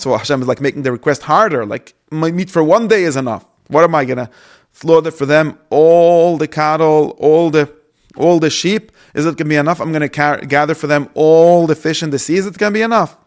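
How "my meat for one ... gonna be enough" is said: louder, pitched-up disbelief; exasperated protest. Retold or imitated. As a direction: Moshe throwing up his hands at an impossible order. Moshe protesting to God.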